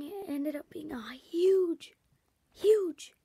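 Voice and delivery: slow, hushed whisper building suspense; dramatic whisper. Acted. Kid telling viewers about Halloween, slow suspenseful whisper. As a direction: breathe it out slowly like a secret.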